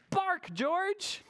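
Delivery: high, coaxing storybook mother; proud mother. Acted. Mother showing George off on the street, high proud coaxing. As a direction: call to the pup with lifted pitch. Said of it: "so she said".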